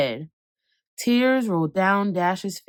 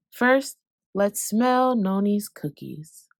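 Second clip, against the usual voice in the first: calm guiding; slower than usual. Acted. Mom guiding calm breathing.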